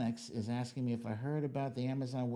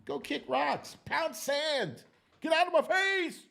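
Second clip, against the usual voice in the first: dismissive telling-off; 11 semitones higher than usual. Retold or imitated. Telling off the critics, brash building brush-off. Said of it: "Tell them, you know".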